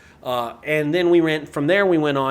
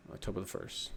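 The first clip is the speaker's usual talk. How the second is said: whispered reading; 7 semitones lower, 16 dB quieter than usual. Real, not acted. Reading his own post aloud.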